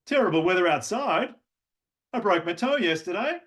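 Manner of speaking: every phrase rising high; upward speak. Shown as a demonstration. Mock Australian uptalk on bad news. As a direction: end each line going up, Australian-style. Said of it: "whatever they're saying moves upward".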